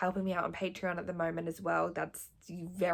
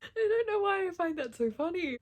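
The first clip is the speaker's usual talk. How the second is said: talking through laughter, much higher; amused, laughing words; 11 semitones higher, 4 dB louder than usual. Real, not acted. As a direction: still giggling as she speaks. Laughing at own joke.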